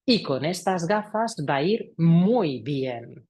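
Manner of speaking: slow, stretched-out "muy bien"; measured sales line, lengthened at the end; slightly drawn out. Shown as a demonstration. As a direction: linger a little on each key word for weight. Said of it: "tengo que darle una duración un pelín más larga".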